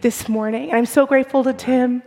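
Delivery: strained, hoarse voice; speaking through a lost voice. Real, not acted. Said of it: "This is just me having lost my voice".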